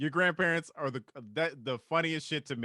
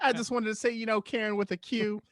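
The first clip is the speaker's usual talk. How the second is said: higher smooth pimp swagger; 5 semitones higher than usual. Acted. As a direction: slick threatening pimp. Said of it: "your fucking pimp voice".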